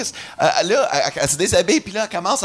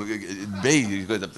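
confused; 10 semitones lower, 6 dB quieter than usual. Retold or imitated. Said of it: "Moi, je suis comme".

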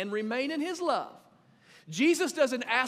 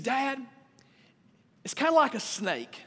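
put-on young son; 6 semitones higher, 4 dB louder than usual. Father voices young son's answer.

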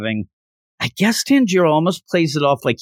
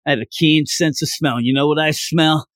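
put-on drunken slurring. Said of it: "talk this Tanjiro dialogue slurring it".

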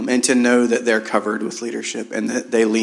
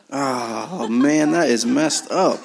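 laughing in embarrassment; 3 semitones higher, much slower than usual. Real, not acted. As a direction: chuckle through the words. Notes missing, laughing embarrassed.

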